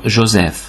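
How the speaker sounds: Joseph in French, ending on an F sound; French Joseph with final F. Shown as a demonstration. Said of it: "P H betűcsoportot mindig F-nek ejtjük".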